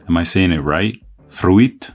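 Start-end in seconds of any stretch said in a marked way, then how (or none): 1.3-1.9 "Fruit" as a higher, louder question, R stressed; emphasized R. Shown as a demonstration. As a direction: lean on the R in "Fruit", asking. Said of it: "emphasizing the R a bit more".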